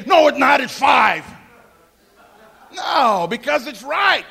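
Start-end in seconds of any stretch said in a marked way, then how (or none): 0.1-1.2 mock upset retort. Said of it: "We don't get all upset and say".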